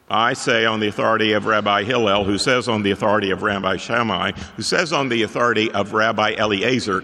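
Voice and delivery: a lightly voiced rabbi, rattled off fast; rabbi quoting authorities. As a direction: hurry through the chain of authorities like a rabbi. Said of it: "Here's how a rabbi would talk".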